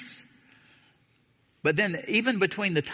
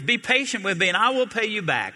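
higher, louder pleading servant; desperate begging; 7 semitones higher, 4 dB louder than usual. A narrator's reading. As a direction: beg for mercy on his knees. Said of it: "and begged him".

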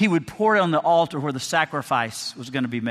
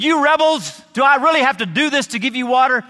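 higher, louder, fast furious yell at the rebels; angry shout; 7 semitones higher, 5 dB louder than usual. Retold or imitated. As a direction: blow up at the people. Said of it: "Moses was so angry".

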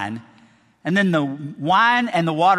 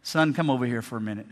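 calm fatherly God; 6 semitones lower, 5 dB quieter, faster than usual. Retold or imitated. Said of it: "and God said".

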